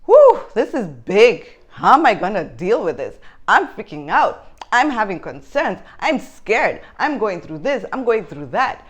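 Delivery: loud, overwhelmed panic, pitch rising; voicing a scared expectant mother's rush of fears; acted freaking out. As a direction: spill out the worry like it's all too much. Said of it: "we're just saying".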